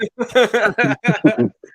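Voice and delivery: high, loud burst of laughter; real laugh. Real, not acted. Laughing at a co-host's mock front-office statement, real high laugh.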